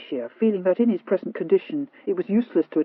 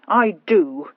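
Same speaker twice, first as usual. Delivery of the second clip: dogged; 6 dB louder than usual. Acted. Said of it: "maintained Sir Rowland doggedly".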